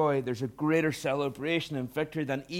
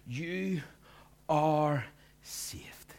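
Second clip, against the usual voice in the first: hushed declaration; much slower than usual. Real, not acted. Preacher whispering assurance to the congregation. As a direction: breathe it to them like a secret.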